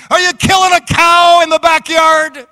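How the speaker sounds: hammed-up impatient yell; mock scream. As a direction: holler at the drive-through. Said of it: "scream out and say".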